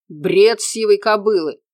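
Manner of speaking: man jumping up to bark at the investigator. A narrator's reading. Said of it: "рявкнул Сыромятин".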